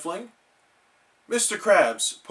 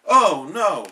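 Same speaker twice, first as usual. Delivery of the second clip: louder, higher scared cry; frightened cry; 4 semitones higher, 7 dB louder than usual. Acted. Nervous SpongeBob hearing Patrick's horror story. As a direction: gasp out in fear. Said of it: "cried SpongeBob".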